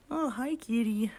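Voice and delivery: slow whispered greeting to the cat. Real, not acted. Owner greeting her cat in a slow whisper. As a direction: breathe it slowly to the kitty.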